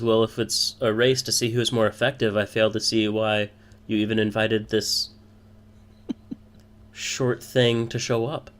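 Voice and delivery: lightly voiced boastful rival; mildly scornful dig at a rival; sly drow. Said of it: "the drow nods slyly".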